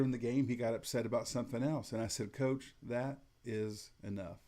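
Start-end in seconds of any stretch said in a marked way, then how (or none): 2.3-4.4 slow, steady and unbothered; calm firm warning. Shown as a demonstration. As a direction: draw the line without any anger. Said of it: "And I said it about like that".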